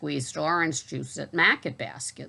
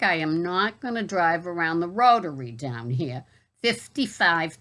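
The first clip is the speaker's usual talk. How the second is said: exasperated. Retold or imitated. Voicing her own refusal.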